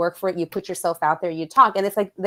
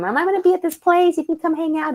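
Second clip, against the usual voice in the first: imitating him; 9 semitones higher, 4 dB louder, faster than usual. Man's invitation voiced in story.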